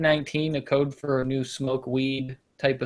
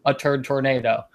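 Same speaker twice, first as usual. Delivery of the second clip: straight-faced; 3 dB louder than usual. Retold or imitated. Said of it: "Like, it was normal, straight-faced".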